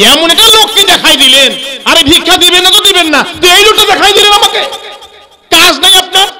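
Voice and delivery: high, loud, exasperated complaint; indignant beggar rant. Acted. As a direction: scold him like a fed-up beggar. Beggar scolds the Prophet angrily.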